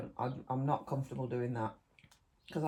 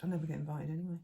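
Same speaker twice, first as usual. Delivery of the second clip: laughing; faster than usual. Real, not acted. Joking about not being invited.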